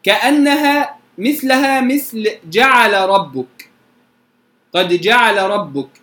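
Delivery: جعل ربك said "ja'arrabbuk", lam merged into a doubled ra. Shown as a demonstration. Teacher compares جعل ربك to قال ربك for students, lam merged into ra. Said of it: "نشعر فيها بالخفة".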